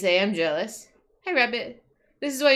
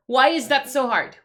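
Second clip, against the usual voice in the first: louder, frustrated demand; 3 semitones higher, 6 dB louder than usual. Real, not acted. Streamer ranting about clock timers, frustrated. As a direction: complain loudly about the timers.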